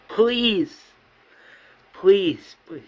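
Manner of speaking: high, drawn-out plea; pleading. Acted. Dying mother begs the Governor to promise, pleading. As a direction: beg with a high falling cry on each word.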